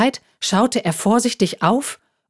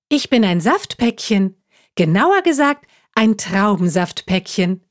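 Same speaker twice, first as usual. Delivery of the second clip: chirpy juice pack; 3 semitones higher than usual. Acted. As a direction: bounce along like a cheerful carton. Child voices juice pack.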